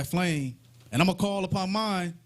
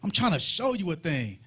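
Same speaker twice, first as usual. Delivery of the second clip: low, scornful jeer; mocking Elijah; 5 semitones lower than usual. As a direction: sneer down at them. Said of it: "And Elijah mocking them".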